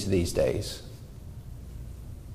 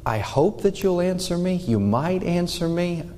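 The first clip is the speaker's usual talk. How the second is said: higher, tentative hopeful plea; unsure hoping; 5 semitones higher than usual. Shown as a demonstration. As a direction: ask as if unsure the answer will come. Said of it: "he's not saying it from a".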